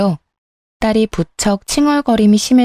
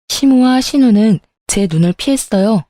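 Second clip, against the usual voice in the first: ordinary delivery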